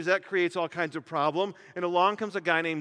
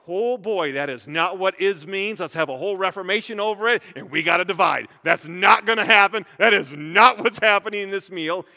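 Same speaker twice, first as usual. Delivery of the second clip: mock Protestant protest; 7 dB louder than usual. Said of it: "we come along and go".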